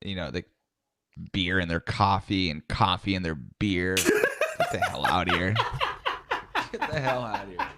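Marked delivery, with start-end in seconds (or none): 3.9-5.5 slow, laughing through the words; laughing disbelief. Real, not acted. Laughing at a gross joke. 6.7-7.7 higher and softer, breaking into laughter; softer laughing repeat. Real, not acted.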